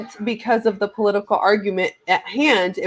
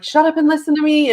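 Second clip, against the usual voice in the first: higher-pitched, mildly heated outburst; retold exasperated demand; 7 semitones higher, faster than usual. Daughter arguing back at her mom, exasperated. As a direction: act out demanding to be heard.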